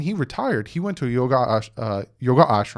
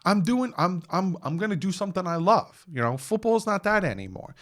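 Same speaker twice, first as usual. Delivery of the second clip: higher, eager retelling of his excitement; pumped and happy; 7 semitones higher than usual. Retold or imitated. Ricky retelling his retirement to friends, pumped. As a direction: bubble over about quitting. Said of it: "And he was pumped".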